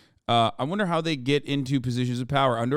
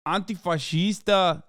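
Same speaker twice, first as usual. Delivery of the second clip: mock Brazilian; 4 semitones higher than usual. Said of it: "trying to do a Braz".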